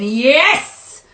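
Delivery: loud, high, rising yes; excited shout. Real, not acted. Reader thrilled by the card's message, excited shout. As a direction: cry out in real delight.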